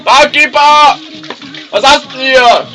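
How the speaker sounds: very high, loud squeaky voice; high cartoon voice. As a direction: shout it all in a tiny high voice. Whole bar scene in high voice.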